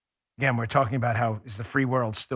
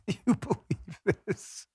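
hushed disbelief; 5 semitones higher, 6 dB quieter, slower than usual. Real, not acted. Stunned repeat of the clip.

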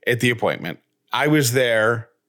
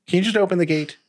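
a pleading, higher voice; exasperated plea; 8 semitones higher, faster than usual. Retold or imitated. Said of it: "I'm like".

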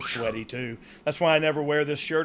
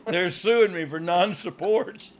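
laughing; 5 semitones higher, slower than usual. Real, not acted. Joke about his calves.

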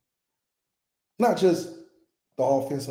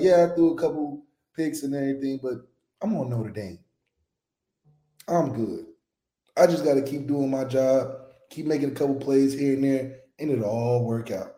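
calm; 2 semitones lower than usual. Acted. Quarterback excusing his picks at Notre Dame, calm. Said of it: "that's why he's so calm now".

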